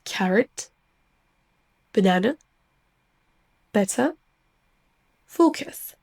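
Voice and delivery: "Carrot, banana, better, focus" with weak neutral vowels; English words, unstressed vowels reduced to schwa. Shown as a demonstration. Teacher asks learners to listen, English schwa pronunciation. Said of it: "C'est le son schwa".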